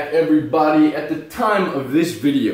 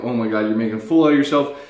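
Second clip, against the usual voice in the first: panicked inner voice; 2 semitones lower, faster than usual. Retold or imitated. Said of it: "in my head, I'm like".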